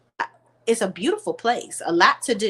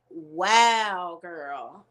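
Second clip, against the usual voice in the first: stunned awe; 2 semitones lower than usual. Retold or imitated. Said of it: "I was like".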